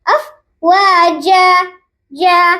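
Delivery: افواجا ending clearly on a, no n; full final a. Shown as a demonstration. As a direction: end افواجا on a pure a. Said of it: "افواج نہیں اور افواجن نہیں". (افواجا کا آخر الف پر)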